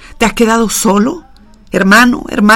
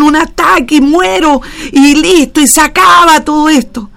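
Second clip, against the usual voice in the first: despairing plea; 4 semitones higher than usual. Pretend. A weary believer pleading with God, building from drained to a raised cry. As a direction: start drained and climb into desperate questioning. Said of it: "no tienes ni fuerzas para abrir tu boca".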